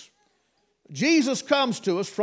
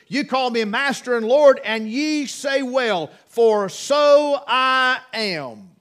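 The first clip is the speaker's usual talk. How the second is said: quoting Christ; 2 semitones higher, 5 dB louder, slower than usual. Acted. Preacher quoting Christ's words.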